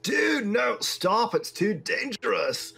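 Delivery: high, urgent shout-out to a friend; alarmed warning. Acted. Icewind Dale warns Dob off the zombies, high and alarmed. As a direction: plead with them to stop, pitched high. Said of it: "you hear Icewind Dale be like".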